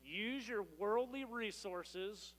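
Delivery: "worldly" drawn out and stressed, very slow; slow emphatic reading. Shown as a demonstration. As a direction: lean on "worldly" slowly. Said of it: "Let me walk you through this real quick".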